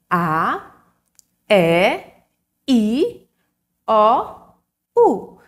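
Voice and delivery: each vowel called out alone, loud and spaced; vowels spelled out. Shown as a demonstration. Teacher calling out the vowels one by one to the children. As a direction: sound out each vowel clearly for the class. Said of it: "as vogais são somente cinco".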